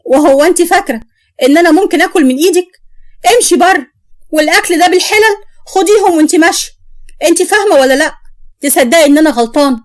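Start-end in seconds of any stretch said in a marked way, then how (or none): 0.1-8.1 wife yelling at her mother-in-law to leave the house, angry; angry shout. Acted. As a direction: snap at the old woman to get out.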